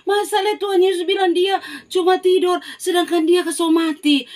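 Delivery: high, loud scornful laugh then jeering; mocking laughter. Mourners loudly laugh at Jesus's claim.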